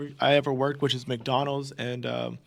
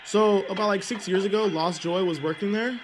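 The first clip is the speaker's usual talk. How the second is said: muffled, covering the mouthpiece; hand over mouth. Pretend. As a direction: talk through a cupped hand. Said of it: "you sound very muffled".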